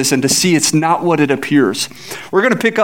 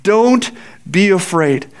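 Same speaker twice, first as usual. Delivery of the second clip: reassuring Elisha; slower than usual. Acted. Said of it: "And so Elisha says".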